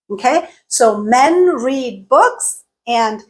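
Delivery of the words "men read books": MEN, READ and BOOKS each stressed, slow; stressed content words. Shown as a demonstration. Teacher showing English timing, evenly stressed. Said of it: "We stressed some syllables".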